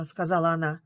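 ordinary delivery

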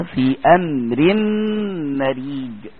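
في امر مريج drawn out slowly with a thin ر; slow recitation demo of a light ر; light Raa. Shown as a demonstration. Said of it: "تمام كده؟".

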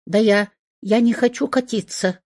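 high, huffy protest; indignant hedgehog. A narrator's reading. Hedgehog protests to the vet, high and huffy. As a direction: sputter it, offended. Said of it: "возмутился он".

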